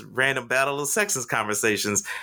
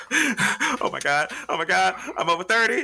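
mock panic; 5 semitones higher than usual. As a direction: fake a meltdown, drawing out the first oh my God. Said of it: "So I faked like I was, uh, hyperventilating".

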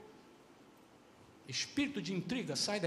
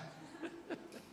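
soft breathy laugh; 8 semitones higher, 14 dB quieter than usual. Real, not acted. Pastor laughs at himself.

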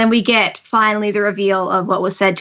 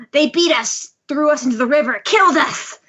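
pitched-up, lightly acted grievance; hammed-up aggrieved villain; villain monologue; 4 semitones higher than usual. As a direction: makeshift villain recounting a wrong.

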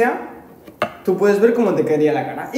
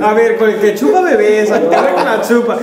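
laughing while talking; 6 dB louder than usual. Real, not acted. Joking about a weird video.

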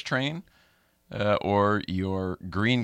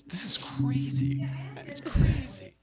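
amazed; much slower than usual. Real, not acted. Amazed at fog in room.

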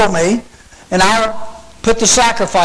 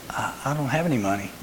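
put-on timid girl; 6 semitones lower, 13 dB quieter, faster than usual. Girl voiced at concession stand.

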